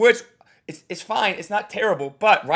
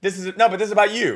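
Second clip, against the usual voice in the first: higher, louder shushing; mock shushing host; 6 semitones higher, 6 dB louder than usual. Coach mocking the host cutting off the crowd. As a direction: shush them, then gush. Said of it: "you're literally saying".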